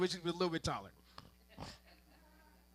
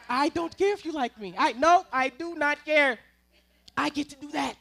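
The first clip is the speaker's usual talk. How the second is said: louder, higher firm no; defiant declaration; 5 semitones higher, 5 dB louder than usual. Acted. Dad telling the little boy he doesn't care. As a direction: stamp it down firmly.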